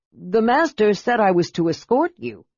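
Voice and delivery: high, timid servant voice; a flustered young servant pleading; nervous servant voice. Acted.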